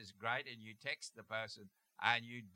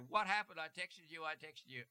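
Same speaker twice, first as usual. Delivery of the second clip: anxious demand; 6 semitones higher than usual. Pretend. Date finally turns up.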